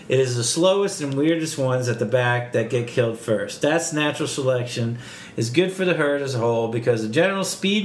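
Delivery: bad Boston accent as Cliff Clavin; hammed-up Boston know-it-all. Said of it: "worst Boston accent".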